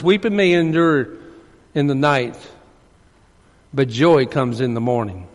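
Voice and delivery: hushed, tender recitation of the verse; soft scripture reading. Acted. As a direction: let the verse fall softly, almost to a whisper.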